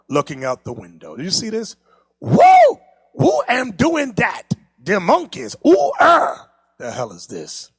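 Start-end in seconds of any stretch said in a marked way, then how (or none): 2.2-7.7 mock cartoon character. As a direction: play the startled kid for laughs. Voicing cartoon boys waking.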